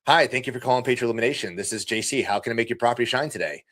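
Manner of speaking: smooth, inviting phone welcome; warm, bubbly greeting. Shown as a demonstration. Office partner with headset answers a customer's call, warm and bubbly. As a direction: greet the caller with polished, upbeat energy. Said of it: "It's warm, it's bubbly, it's inviting".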